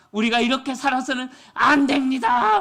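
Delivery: hammed-up pulpit shout; mock preacher shout. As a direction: shout it like a fiery pastor. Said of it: "막 그렇게 외쳐도".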